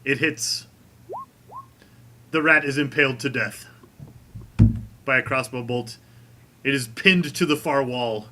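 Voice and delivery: deliberate storytelling, pausing between phrases; game master narration. Acted. Game master describes the crossbow kill to the players, deliberate narration.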